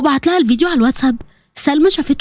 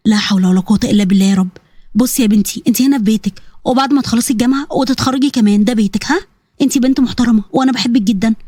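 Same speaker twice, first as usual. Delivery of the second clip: lowered, motherly voice; reassuring motherly woman; 5 semitones lower than usual. Acted. Hostel supervisor to upset girl, low and reassuring. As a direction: comfort her in a lower register. Older woman comforts Salma.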